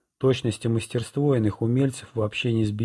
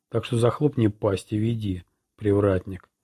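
sarcastic. Acted. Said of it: "я вложил весь отмеренный мне жизнью сарказм".

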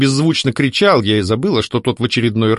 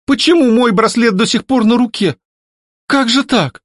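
high, shocked lament; distressed; 11 semitones higher, 3 dB louder than usual. A narrator's reading. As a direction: cry out in disbelief.

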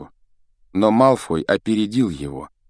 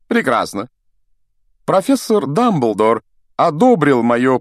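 high, loud, showy speechifying; grandiose proclaiming; 7 semitones higher, 4 dB louder than usual. A narrator's reading. Vain professor addressing his pupils, grandly proclaiming. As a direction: hold forth to a crowd in a high, swelling voice. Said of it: "вещал Локонс".

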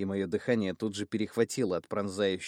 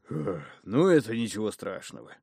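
breezy, louder brush-off; carefree dismissive; 5 dB louder, slower than usual. Acted. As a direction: wave the worry away. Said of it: "беззаботно махнул рукой кузнец".

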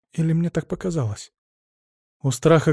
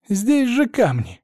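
high slow shriek of alarm; 8 semitones higher, slower than usual. Acted. Maryana shrieking a warning to her friend, alarmed. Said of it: "взвизгнула Марьяна".

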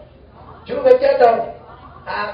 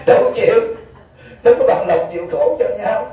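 laughing exclamation; 5 semitones higher than usual. Real, not acted. Punchline to audience, laughing.

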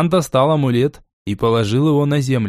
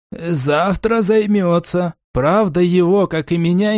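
lightly raised voice for Герман; character voice; 5 semitones higher than usual. Acted. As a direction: voice the professor a bit higher. Герман speaking, narrator voices him.

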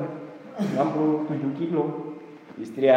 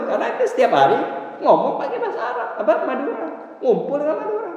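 laughing; 13 semitones higher, faster than usual. Real, not acted. Teacher laughs while joking.

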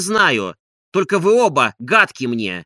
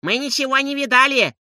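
two women in unison; 11 semitones higher than usual. A narrator's reading. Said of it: "сказали обе женщины в один голос".

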